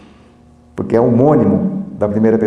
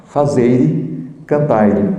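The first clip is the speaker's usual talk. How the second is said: fazeire and cantaire in a European Portuguese accent, with a vowel added after the r; much slower than usual. Shown as a demonstration. Teacher imitates a European Portuguese accent for the class. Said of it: "eles resolvem acrescentando uma vogal".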